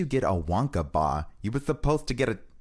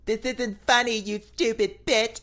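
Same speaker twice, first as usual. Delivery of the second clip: angry; 5 dB louder than usual. Acted. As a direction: snap it furiously. Rehearsing a scripted line.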